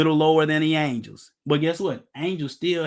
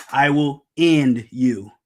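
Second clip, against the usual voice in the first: 1 mock threat; 4 semitones lower, 5 dB louder, much slower than usual. Threatening daughters' suitors.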